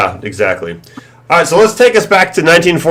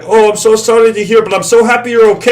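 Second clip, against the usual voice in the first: much higher, syrupy caller voice, fast at the end; fake-sympathetic scammer; 9 semitones higher than usual. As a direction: sound caring but only want the card. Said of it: "And he's like".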